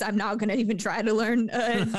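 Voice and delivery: imitating him through laughter; laughing mockery. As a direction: laugh through the lazy quote. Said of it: "It felt like he was like".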